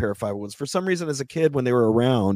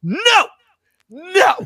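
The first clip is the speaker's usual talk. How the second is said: high, loud outburst; retold frustrated shout at the rep; losing it shout; 3 dB louder than usual. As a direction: yell no like you've snapped. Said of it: "I lost it".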